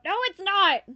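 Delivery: loud, high outburst of disbelief; indignant shout. Real, not acted. Player answering viewers about an umlaut, indignant shout. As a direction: shout the denial, pitch shooting up.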